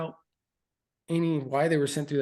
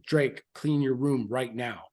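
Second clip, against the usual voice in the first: impatient order; slower than usual. Retold or imitated. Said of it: "I start getting very impatient".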